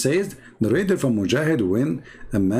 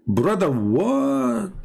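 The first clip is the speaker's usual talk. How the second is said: incredulous; 7 semitones higher, much slower than usual. Real, not acted. Mock disbelief at question.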